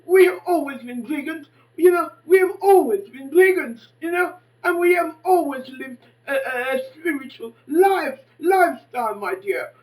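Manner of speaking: put-on loud preachy lecture to a young woman; lecturing loudly. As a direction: lay it on her like a sermon, full voice. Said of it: "I said to her".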